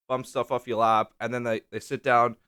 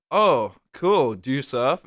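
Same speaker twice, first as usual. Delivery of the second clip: mock enthusiasm; 6 dB louder, slower than usual. Officer reacting to a traveller's form, mock-enthusiastic. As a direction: act lightly over-keen, easing off on the question.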